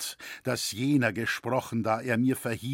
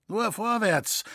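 higher, louder rallying call; 10 semitones higher, 4 dB louder than usual. A narrator's reading. Weaver urging the old carver along, calling out. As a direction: urge them on. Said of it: "rief der Barchentweber".

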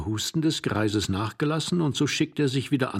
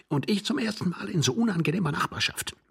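higher, mocking retort; sarcastic; 8 semitones higher than usual. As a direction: sneer at him. (spöttisch)

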